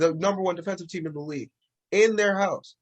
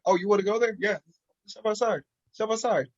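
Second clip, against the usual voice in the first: raised-pitch, quick-to-fight comeback; confrontational challenge; 5 semitones higher, faster than usual. Retold or imitated. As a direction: act out calling someone out to fight.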